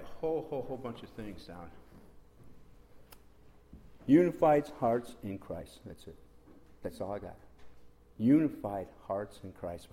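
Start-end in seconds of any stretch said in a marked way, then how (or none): 4.0-5.8 loud, slow, measured declaration; weighty, deliberate preaching announcement; solemn proclamation. Real, not acted. Announcing the revealed message to congregation. 8.2-9.9 loud, slow, measured declaration; deliberate preaching refrain; emphatic proclamation. Real, not acted. Repeating the message with force.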